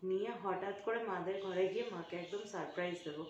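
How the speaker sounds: conspiratorial hush, planning a surprise; hushed secret talk. Real, not acted. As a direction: keep it very soft so mom can't hear. Hiding surprise gift from mother. (মায়ের কাছে লুকিয়ে, খুব নিচু গলায় ফিসফিসে কথা)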